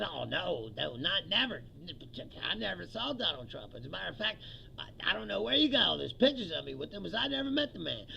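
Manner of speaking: low, hushed insistence; nervously covers for Trump. Retold or imitated. Comic imitating Maxwell denying she saw Trump.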